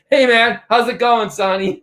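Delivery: all excited, welcoming the next speaker; fired-up greeting. Real, not acted. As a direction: greet him with a burst of energy. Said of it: "I'm all excited and fired up".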